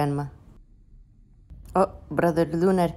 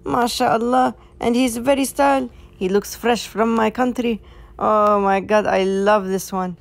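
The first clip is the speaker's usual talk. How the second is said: high, loud cooing with stretched words; swooning, high-pitched fuss; adoring gushing; 5 semitones higher, 5 dB louder than usual. Acted. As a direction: fawn loudly over something adorable. Fawning over the male cat.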